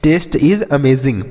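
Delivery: very slow, every word stretched; slow model sentence. Shown as a demonstration. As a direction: say it slowly so pupils can copy. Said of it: "तो आप क्या बोलेंगे". (धीरे-धीरे, शब्द खींचकर)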